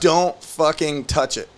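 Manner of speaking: slow, emphatic retold warning; urgent warning. Warning someone with the drugs on the phone, firmly emphatic. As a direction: space out the words as a firm order.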